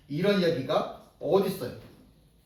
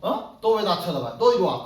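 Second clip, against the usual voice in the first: mock angry challenge; 3 dB louder than usual. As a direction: confront the one who stared, a hint of a brawler. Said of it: "화가 나가지고". (화가 나서 시비 거는 흉내로 크게)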